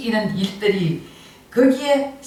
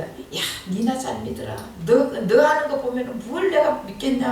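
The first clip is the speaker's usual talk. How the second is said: mocking scoff. Listener jeering at someone sharing the gospel, mocking. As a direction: brush the preacher off, mockingly. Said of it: "조롱하는 거예요".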